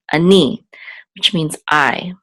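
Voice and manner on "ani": "ani" with the second syllable "ni" stronger; stress on NI. Shown as a demonstration. Teacher showing where the accent falls, stress on second syllable. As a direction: lean on "ni" in "ani". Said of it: "the accent is on ni".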